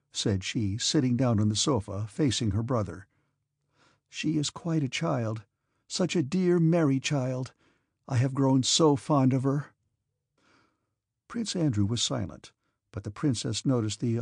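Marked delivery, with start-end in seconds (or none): 4.1-9.7 put-on gentle young woman voice. Princess Mary speaking.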